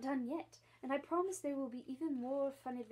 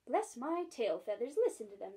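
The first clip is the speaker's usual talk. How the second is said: starling voice; 5 dB louder than usual. Acted. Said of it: "said the starling".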